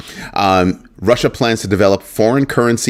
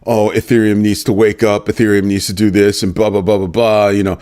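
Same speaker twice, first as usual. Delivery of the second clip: mocking the creator. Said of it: "the creator was talking about".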